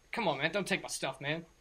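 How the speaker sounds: lightly voiced whiny addict, pleading; a hint of a begging junkie; pleading druggie. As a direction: plead like a captive desperate for his fix. Game master voices the captive.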